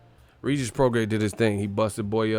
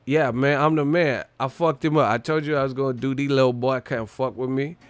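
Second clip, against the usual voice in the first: bragging fighter impression; 3 semitones higher than usual. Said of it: "He said".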